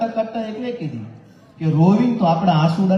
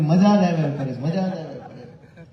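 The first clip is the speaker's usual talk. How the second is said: laughing. Real, not acted. Laughing repeat.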